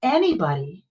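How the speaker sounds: matter-of-fact, slowing on the last words. Retold or imitated. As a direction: state it plainly, as simple fact. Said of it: "says very matter-of-factly and pragmatically".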